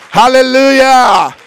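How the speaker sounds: high, drawn-out hallelujah shout; slow, soaring hallelujah; exultant shout. Real, not acted. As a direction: lift the room with it. Preacher exults to congregation.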